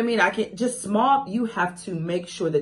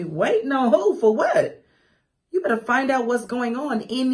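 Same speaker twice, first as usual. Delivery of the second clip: high, loud, incredulous questions; challenging retort; 7 semitones higher, 4 dB louder than usual. Acted. Answering someone waiting to be told, with incredulous challenge. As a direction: throw the questions back, louder and higher. Scolding an imagined excuse-maker.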